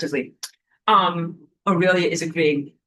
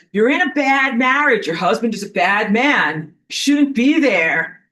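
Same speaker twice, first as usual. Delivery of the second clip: warning outsider; 3 semitones higher, 4 dB louder, slower than usual. Retold or imitated. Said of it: "someone comes along to you and says".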